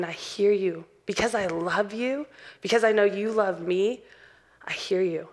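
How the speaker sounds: earnest, softening reply to God; humble repentance. Acted. Believer responding to God's correction, humble and sincere. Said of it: "opening up your heart to God".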